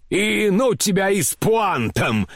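high, irritable dismissal; irritated. A narrator's reading. Grandmother waving the general away, irritated and high. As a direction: wave him off crossly. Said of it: "Раздражительно отмахнулась от него бабушка".

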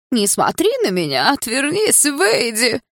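high, mocking squeaky girl-voice parody of her; карикатурно тоненьким голосом. A narrator's reading. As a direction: shriek it thin like a fake bashful girl. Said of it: "Карикатурно тоненьким голосом выкрикнул он". (пародия на девушку тоненьким высоким голосом)

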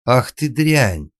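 high, loud, drawn-out insult; slow outraged shriek. A narrator's reading. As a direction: squeal it in fury. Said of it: "взвизгнула хозяйка и тресь".

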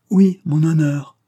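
loud, high and drawn-out indignation; vibrant resentment. A narrator's reading. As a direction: hit it hard, stung by humiliation. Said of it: "d'une voix que le ressentiment ... rendait plus vibrante".

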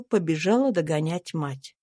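ordinary delivery

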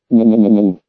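low, drawn-out mournful howl; despairing wolf howl. A narrator's reading. Man trapped in the bunker howling in low despair. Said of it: "попавшим в капкан волком выть".

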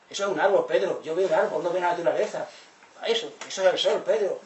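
loud, emphatic correction; mock indignant insistence. Felipe insisting to Pedro it's just a tree, loudly. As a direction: raise your voice, pointing things out. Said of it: "Y dice".

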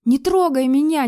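high, loud crying plea; pinned to the wall, weeping plea; tearful plea. A narrator's reading. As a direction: beg through tears. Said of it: "Слёзы брызнули из моих глаз".

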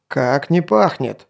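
slow mock growl. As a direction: growl it at the guard. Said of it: "зарычал Сван".

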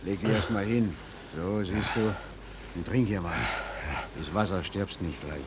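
calming. Acted. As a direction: soothe a panicked friend. Calming the collapsed man. (beruhigend leise)

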